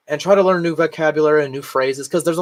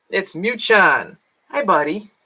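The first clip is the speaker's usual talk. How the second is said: higher, slow pet greeting; 5 semitones higher than usual. Real, not acted. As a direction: coo the cat's name. Greeting her cat.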